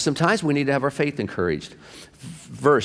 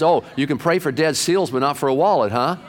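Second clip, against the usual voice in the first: higher-pitched imitation of a miffed wife; mock indignation; 4 semitones higher than usual. Wife challenges husband over his prayer, mildly indignant. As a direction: toss it back as a lively challenge.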